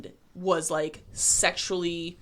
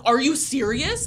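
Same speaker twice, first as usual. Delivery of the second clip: mock disbelief; 5 semitones higher, 6 dB louder, slower than usual. Client disbelieving the clamp news.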